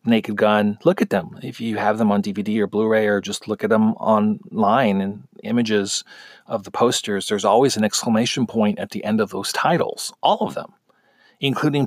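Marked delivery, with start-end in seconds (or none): none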